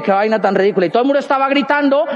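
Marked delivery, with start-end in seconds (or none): 0.0-0.9 low-pitched scornful remark; dismissive aside. Retold or imitated. Speaker privately scoffing at the slogan, low dismissive aside. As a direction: drop it low, unimpressed by the hype. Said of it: "Y dije".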